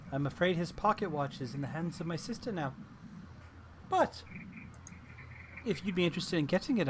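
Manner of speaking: put-on scatterbrained old hag voice; erratic old frog hag. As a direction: play the hag, erratic and chatty.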